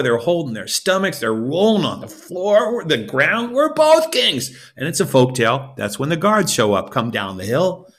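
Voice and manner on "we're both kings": laughing. Acted. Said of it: "they fall over".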